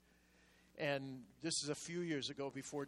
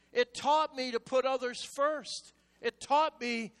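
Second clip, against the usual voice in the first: repeated louder to drive it home; 8 semitones higher, 7 dB louder than usual. Shown as a demonstration. Preacher repeating to congregation, louder and pressing. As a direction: hammer it at them again.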